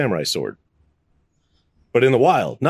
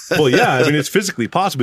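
laughing disbelief; 9 semitones higher than usual. Retold or imitated. Laughing in disbelief retelling reply.

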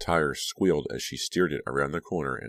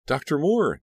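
high, loud desperate call; shouting; 12 semitones higher, 7 dB louder than usual. A narrator's reading. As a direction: yell his name through the door. Pounding door, calling for help.

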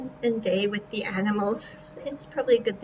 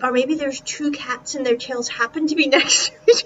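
laughing; 7 dB louder than usual. Real, not acted. Guessing about two cats.

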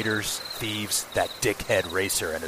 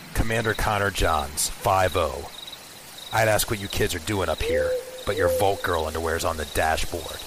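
lightly voiced gruff old cop; a hint of a stern beat cop; 1930s beat cop; 5 dB louder than usual. Plays a gruff police commander.

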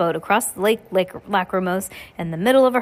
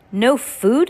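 shocked; 5 semitones higher, 6 dB louder than usual. A narrator's reading. Josephine shocked at no food.

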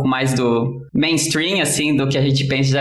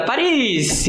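mock yell; 7 semitones higher than usual. Joke teller voicing second runner crying a destination, mock yell. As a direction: pitch it up and stretch the call. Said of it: "sai correndo e grita".

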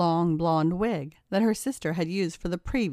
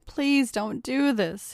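higher, slow pleading; begging; 5 semitones higher, slower than usual. Acted. Ryan begging Kayla not to tie him, high and slow. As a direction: beg her to stop, drawn out. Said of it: "he begged".

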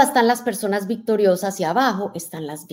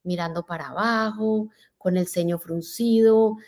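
speaking softly; 7 dB quieter than usual. Shown as a demonstration. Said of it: "hablando bajito".

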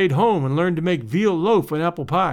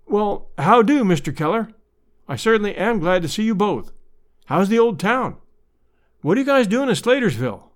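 awkward; 4 semitones higher than usual. Acted. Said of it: "Then, awkwardly".

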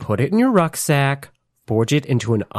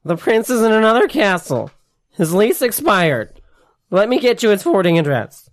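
mock clerk; 5 semitones higher than usual. Improv prompt, shop clerk bit.

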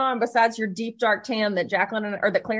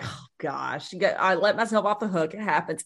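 mock self-forgiving; 4 semitones lower than usual. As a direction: let yourself off the hook gently. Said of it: "you're like".

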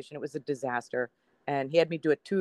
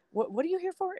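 dismissive. Retold or imitated. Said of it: "he was so dismissive".

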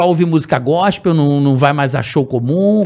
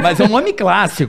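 stifled giggles. Real, not acted. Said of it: "não tô rindo".

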